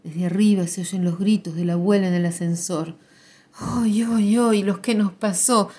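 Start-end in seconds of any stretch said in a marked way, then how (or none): 3.6-5.7 grandmother's wail. Acted. Grandmother arriving in the lift, half-raised wail. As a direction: lament rising a bit higher and louder. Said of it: "grita muy fuerte".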